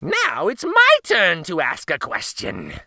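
put-on gleeful old witch voice; delighted crone, eager to ask. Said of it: "announced Baba Yaga gleefully".

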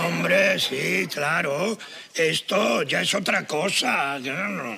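drawn-out mock approval; sarcastic little tone. Husband receives three euros from his partner, sarcastic. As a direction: stretch it out, pretending to be satisfied. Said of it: "no lo digas con ese tonito".

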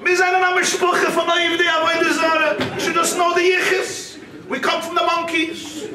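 booming, proud mock speech at the Sheva Brachas; chosen's hammed-up toast. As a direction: declaim it like a puffed-up groom boasting of his lineage. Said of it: "He says".

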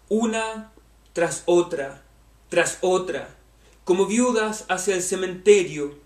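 measured poetry reading, phrase by phrase; poem recitation. Acted. Reads a poem aloud.

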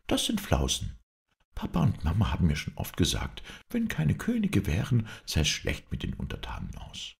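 understated anger, emphatic argument; cross princess. Acted. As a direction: argue stubbornly with a touch of temper. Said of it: "Nun ward die Prinzessin im Ernst böse". (leicht verärgerte, beharrliche Prinzessin)

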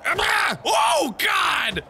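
high-pitched startled cry; alarmed yelp. Real, not acted. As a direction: yelp high, then drop on the last word. Reacting to mishap in game.

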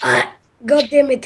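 cracking voice. Real, not acted. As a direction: voice cracks on the words. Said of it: "hate the voice crack".

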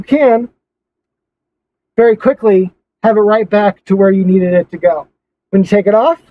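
muffled behind cloth mask; speaking with covered mouth; through a face mask. Real, not acted. Seen 4: Camouflage cloth mask covers mouth and nose from 0.2 to 6.6 seconds.

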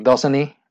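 "doesn't he" linked as "dosan-ee", H silent; H dropped. Shown as a demonstration. Teacher warning what learners may hear, H dropped in "doesn't he". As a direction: say "doesn't he" as one word without the H. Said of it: "Cuando te vayan a decir".

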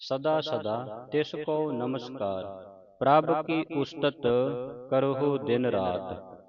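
slow, measured verse reading with drawn-out vowels; scripture recitation. Shown as a demonstration. Teacher models Gurbani for the congregation, slow recitation. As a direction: recite each verse slowly, stretching the line's long vowels.

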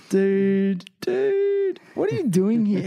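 second dude jumps way up, thrilled; excited greeting. Real, not acted. Host thrilled to welcome his mentor, excited squeal. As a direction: squeal the dude, then gush the question.

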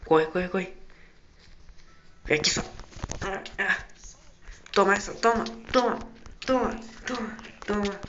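loud, high frantic shouting; panicking gamer. Real, not acted. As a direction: yell each hit in a frenzy. Fighting animatronic, shouting hits. (gamer em pânico gritando)

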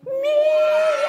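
very high, loud yowling meow; cat meow. Acted. Host showing the crowd how, a big high meow. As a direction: yowl it like a cat. Leading audience countdown.

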